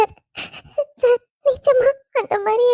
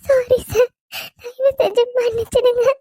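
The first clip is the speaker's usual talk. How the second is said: crying apology. Acted. Bride begs forgiveness, crying.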